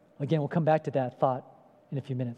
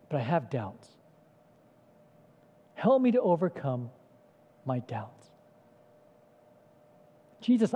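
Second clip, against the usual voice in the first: sincere prayer; 2 semitones lower than usual. Acted. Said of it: "my modern day paraphrase".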